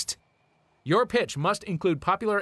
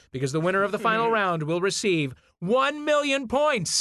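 game show hype; 3 semitones higher than usual. Acted. Host announces the big prize.

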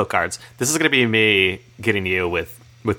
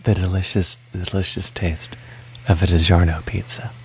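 ASMR voice; 3 semitones lower than usual. Pretend. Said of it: "a little A S M R on this episode".

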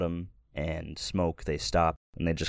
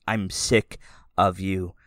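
blunt; 5 dB louder than usual. Acted. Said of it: "She looks at Peter and she says".

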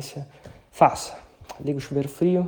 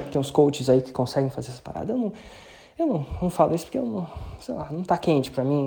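ordinary talk, nothing marked

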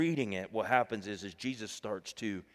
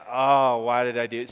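regretful cry; 11 dB louder than usual. Retold or imitated. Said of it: "it's like".

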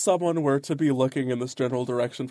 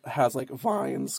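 voice cracking; 2 semitones lower, much slower than usual. Real, not acted. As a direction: voice cracks on the word vines. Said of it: "My voice just cracked so bad on the word vines".

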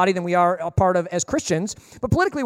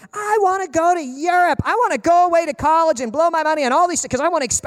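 mock Gen Zer; 6 semitones higher than usual. Imitating Gen Zers longing for Europe and college, high gushing. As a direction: gush dreamily in a put-on youthful voice. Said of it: "so many Gen Zers are like".

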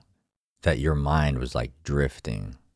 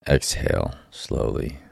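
calm guided meditation voice. Acted. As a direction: guide them inward, gently. Leads a meditation.

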